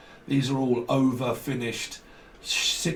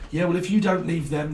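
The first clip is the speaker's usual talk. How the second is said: mock ultimatum; 6 semitones higher, 5 dB louder than usual. Voicing a partner's ultimatum.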